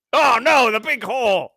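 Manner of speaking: high mock panic; mock alarm. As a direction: cry it out in fake alarm. Mock distress over hole.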